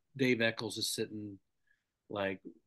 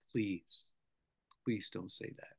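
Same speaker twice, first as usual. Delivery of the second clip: pleading plea; 3 semitones lower, 8 dB quieter, slower than usual. Retold or imitated. GM pleads in a low voice.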